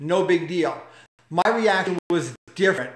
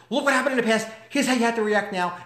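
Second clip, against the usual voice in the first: voice of the past; 4 semitones higher, faster than usual. Retold or imitated. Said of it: "just shows up and says".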